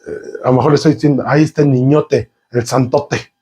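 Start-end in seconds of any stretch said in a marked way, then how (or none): 1.3-3.3 slow, teasing sneer; drawn-out teasing nickname; mocking tone. Shown as a demonstration. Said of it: "Hasta el tono cambia".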